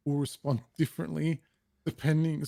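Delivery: stifling laughter while reading; trying not to laugh mid-sentence. Real, not acted. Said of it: "I'm trying not to laugh".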